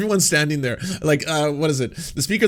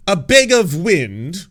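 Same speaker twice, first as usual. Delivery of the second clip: slower, louder, rising again with more delight; an even more incredulous question; more amused disbelief; 5 semitones higher, 6 dB louder, much slower than usual. Real, not acted. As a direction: lean into the word bag.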